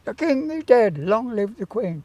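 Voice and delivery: echoed proclamation fading to normal volume; repeated proclamation. Retold or imitated. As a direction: repeat it back, trailing off. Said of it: "you'll repeat what I say".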